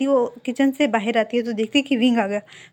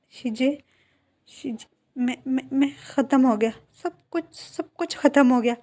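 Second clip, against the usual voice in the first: higher, halting mock sobbing with stammered words; crying, broken speech; 4 semitones higher than usual. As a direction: stammer through tears, lightly acted. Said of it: "वो बहुत बुरी तरह रो रहा था". (हल्का सा अभिनीत रोना, अटकते हुए शब्द)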